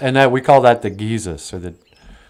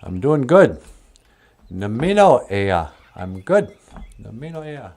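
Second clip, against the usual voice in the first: lightly voiced bear; 4 semitones higher than usual. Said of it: "Wally Bear says".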